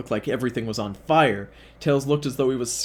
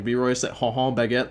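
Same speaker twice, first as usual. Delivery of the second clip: mock French. Shown as a demonstration. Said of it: "he could have read it like French".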